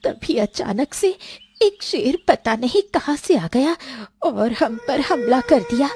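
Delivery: put-on lost girl pouring out her story, uneasy; frightened girl. Girl character tells her story. (डरी हुई लड़की की आवाज़)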